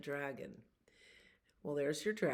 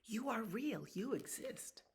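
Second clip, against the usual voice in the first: higher, gentle little dragonfly; dragonfly comforts the dragon, higher; 7 semitones higher, 4 dB quieter than usual. Acted. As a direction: lift the voice like a tiny dragonfly. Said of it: "the little dragonfly perches ... says".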